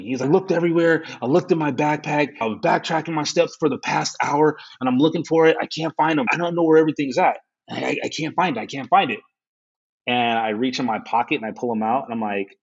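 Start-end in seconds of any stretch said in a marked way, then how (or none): 0.3-9.2 higher, rushed frantic rambling; losing it over lost keys; panicked. Retold or imitated. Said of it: "He was losing his mind".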